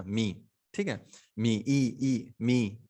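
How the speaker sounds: "मी" with an open long ee; long vowel demo. Shown as a demonstration. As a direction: repeat "मी" and "ई" separately to isolate the ee. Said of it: "यहाँ पे मी बोल रहे हैं".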